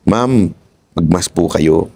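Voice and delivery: polite, gentle request; in a nice way. Shown as a demonstration. Asking a shopper nicely to wear a mask, polite and gentle. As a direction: ask her kindly to wear a mask. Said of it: "kung sasabihin mo in a nice way".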